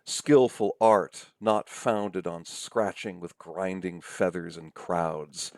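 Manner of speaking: slow, deliberate reading of grating sounds; reciting cacophony. Shown as a demonstration. Lecturer reads a made-up line to show cacophony, reciting slowly. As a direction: lean hard on each jarring word, slowly. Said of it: "this line that I just made up".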